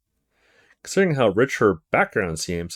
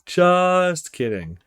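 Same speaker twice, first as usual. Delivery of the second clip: drawn out; 6 semitones higher, much slower than usual. Acted.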